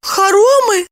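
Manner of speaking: high, anxious хоромы?; high alarmed echo; alarmed question. A narrator's reading. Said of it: "встревожилась Липочка".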